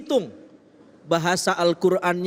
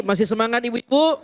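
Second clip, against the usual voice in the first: booming prize announcer; 6 semitones higher than usual. Acted. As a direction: pump up the audience. Quiz host hypes audience.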